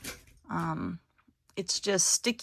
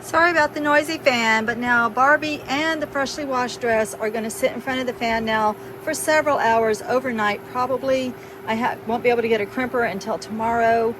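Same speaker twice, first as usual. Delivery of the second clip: raised voice over fan noise; talking over a fan; 3 semitones higher, 5 dB louder than usual. Real, not acted. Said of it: "I'm talking through a fan".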